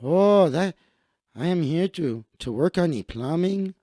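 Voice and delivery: hesitant Mexican-accented English. Shown as a demonstration. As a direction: demonstrate a put-on Mexican accent. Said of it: "I will put on my Mexican voice".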